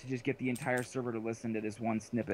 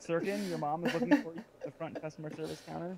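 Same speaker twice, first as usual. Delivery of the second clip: mock store announcement; 4 semitones higher than usual. Joke store announcement paging a lost child.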